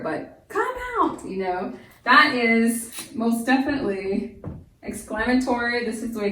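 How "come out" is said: hint of Jesus calling Lazarus out; half-hearted shout. Teacher only hinting at Jesus calling from the tomb. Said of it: "I can't replicate it here".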